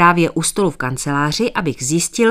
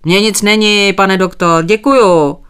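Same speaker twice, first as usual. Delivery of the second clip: put-on old farmer answering kindly, a touch raised; friendly, easygoing brush-off; polite old man shrugging off the doctor; affable reply; 3 semitones higher, 6 dB louder than usual. A narrator's reading. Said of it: "odpověděl přívětivě".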